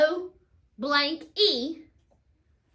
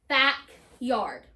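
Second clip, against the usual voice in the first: "Backyard" as back, pause, yard; two separate beats on "Backyard"; syllabicated; 4 semitones lower than usual. Shown as a demonstration. Teacher putting the syllables together, "Backyard" said back... yard. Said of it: "break it up into syllables".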